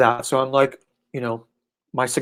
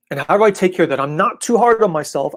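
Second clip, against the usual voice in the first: whispered, higher anxious self-talk; mocking whisper; 6 semitones higher, 4 dB louder than usual. Teasing the questioner by voicing their anxious inner tone in a whisper. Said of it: "you feel the tone there? This is like".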